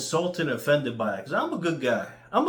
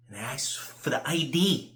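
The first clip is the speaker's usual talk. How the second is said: breathy unvoiced whisper. Whispering the story to the camera. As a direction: keep it all breath.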